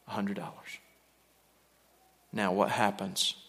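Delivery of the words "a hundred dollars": whispered tally. Retold or imitated. Repeated wage count dropping.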